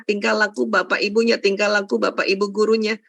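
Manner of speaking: ordinary delivery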